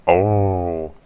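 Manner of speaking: booming theatrical oh. Shown as a demonstration. Streamer redoing the game line, loud dramatic oh. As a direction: belt out the "Oh." like an anime hero. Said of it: "I gotta say it like this".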